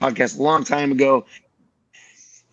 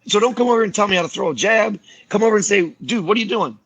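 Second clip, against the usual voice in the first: higher, pushed telling-off; frustrated fighter telling a stranger off, raised voice; emphatic telling-off; 6 semitones higher than usual. Retold or imitated. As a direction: set the critic straight, firmly. Telling off the gym critic.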